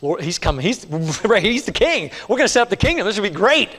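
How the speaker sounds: a hint of excited disciples dreaming of the kingdom; lightly voiced, hopeful followers building up; mildly excited disciples imagining victory over Rome; eager disciples.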